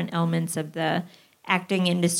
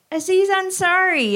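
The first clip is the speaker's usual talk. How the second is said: mock hesitant suggestion; 12 semitones higher than usual. Classmate suggests a lookalike.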